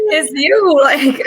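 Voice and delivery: high, loud, half laughing and half crying; playful mock crying; teary laughing echo. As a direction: echo her words through a tearful laugh. Listener echoes the teary moment.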